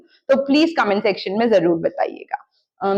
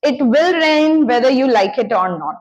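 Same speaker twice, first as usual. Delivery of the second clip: very slow, each word set apart for learners; slow model sentence; much slower than usual. Shown as a demonstration. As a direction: spell it out slowly like a teacher giving the example. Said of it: "teacher models the English sentence". (धीमे-धीमे, साफ़ बोलकर उदाहरण वाक्य)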